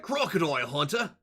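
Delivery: broad mock Aussie accent; Australian crocodile hunter. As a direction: imitate an Australian wildlife showman. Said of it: "He's gotta be like".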